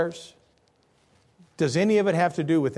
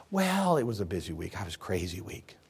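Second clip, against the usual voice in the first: mocking excuse; 10 semitones lower, 10 dB quieter than usual.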